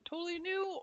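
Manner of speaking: "new" pitched high in excited disbelief; stress on new. Retold or imitated. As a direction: throw "new" way up in amazement. Repeats with rising emphasis.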